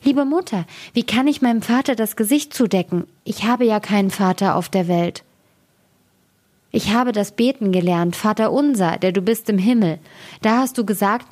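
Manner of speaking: put-on a small boy, fretting and cross; impatient child.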